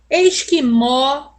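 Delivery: "Esquimó" slowly, syllable by syllable, ending on an open O; "Esquimó" dictated slowly, final O open and stressed; open accented O. Shown as a demonstration. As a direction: draw out "Esquimó" with a wide final "ó". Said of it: "o acento agudo no O".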